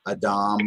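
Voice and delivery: Adam with the weight on the end, a-DAM; stress on second syllable. Shown as a demonstration. Teacher answering where the accent is, Adam stressed on the last syllable. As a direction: lean on the second half of Adam. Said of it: "emphasis comes in on the second half".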